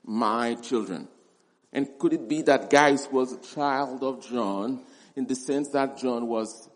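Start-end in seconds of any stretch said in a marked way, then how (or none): 0.0-1.1 put-on softer, lower "my children", said tenderly; personal. Shown as a demonstration. Preacher savouring John's affection, soft and personal. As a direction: let "my children" sound intimate. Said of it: "Very personal".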